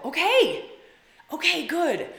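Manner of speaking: high and loud, laughing through the words; laughing okay. Real, not acted. Host laughing at a viewer's fairy comment, laughing through it. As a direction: crack up while agreeing.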